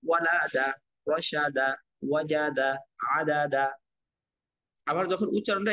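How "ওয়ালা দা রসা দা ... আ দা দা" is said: measured syllable-by-syllable Arabic spelling chant; spelling drill recitation. Shown as a demonstration. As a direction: spell each letter and vowel, then join them evenly. Teacher models Arabic spelling drill.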